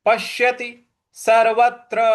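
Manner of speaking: पश्यति सर्वत्र with pressed श and त्र; stressed conjuncts. Shown as a demonstration. Teacher joining both words, stressed conjuncts. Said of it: "उस पर हमें आघात देना है".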